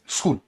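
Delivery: स्कूल with s and k joined, "skool"; standard pronunciation. Shown as a demonstration. Teacher shows how Delhi students say it, standard. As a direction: say स्कूल with no added vowel. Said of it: "Delhi वाले student लगभग ठीक बोल देते हैं".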